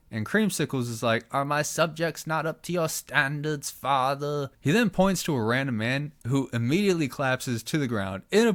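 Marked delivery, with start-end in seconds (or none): 1.3-4.5 a touch higher, eerie and hushed; a lightly voiced creepy son. Son asks his father about the subjects, lightly creepy. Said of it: "Why are you so fucking creepy".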